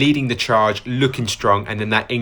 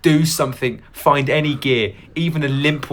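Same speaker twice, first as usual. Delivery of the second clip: loud, push yourself on; self-urging shout; 4 semitones higher, 4 dB louder than usual. Real, not acted. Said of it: "urging himself on".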